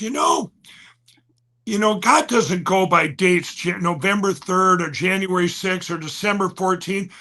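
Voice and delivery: unhurried, slow retelling of a friend's words; slow talker. Retold or imitated. Friend consoling him about God's timing, slow imitation. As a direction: draw it out, imitating someone who talks slowly. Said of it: "he talks kind of slow".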